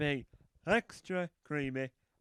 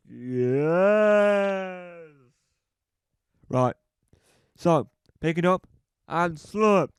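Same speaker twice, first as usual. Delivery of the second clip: loud barking site foreman giving orders; loud gruff foreman teaching apprentices; bossy builder foreman; 7 dB louder than usual. Acted. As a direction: shout instructions at the new lads.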